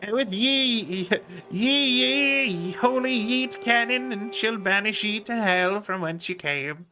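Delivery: lightly voiced preacher of doom; mock biblical prophet. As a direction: proclaim it like an old prophet. Playing a holy warrior in game.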